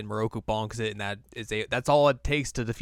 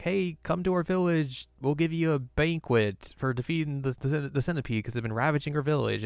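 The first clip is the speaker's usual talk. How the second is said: mildly excited villager voice, pitched higher at first; 4 semitones higher than usual. Retold or imitated. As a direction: invite them over like an eager villager. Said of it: "villagers who are very excited".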